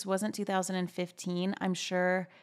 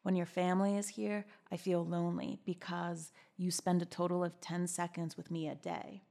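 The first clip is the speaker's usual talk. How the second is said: lightly voiced boyfriend, trailing softer; boy voice; 5 dB quieter than usual. Boyfriend texting his complaint to her, lightly put-on boy voice. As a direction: read it in a subdued hint of a boy voice. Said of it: "I'll do the boy voice".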